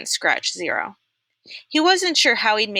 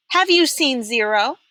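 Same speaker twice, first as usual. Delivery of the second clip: warden voice; 6 semitones higher, 4 dB louder than usual. A narrator's reading. Warden questions Stanley.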